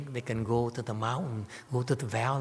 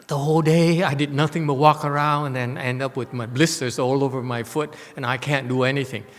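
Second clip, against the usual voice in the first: loud, aggrieved rant about being disturbed; retold upset rant; 7 dB louder than usual. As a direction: vent the frustration, pushing on. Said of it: "That's how upset I was".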